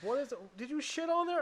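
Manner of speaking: high mock panic; freaking out. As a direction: imitate a horrified partner, pitch climbing. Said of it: "she's freaking out too".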